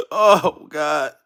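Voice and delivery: usual speaking voice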